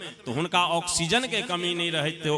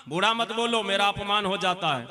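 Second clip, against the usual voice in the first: higher-pitched acted objection; mock-offended protest; 3 semitones higher than usual. Old passenger tells the conductor he feels insulted, mock-offended. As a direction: protest as if your pride is hurt.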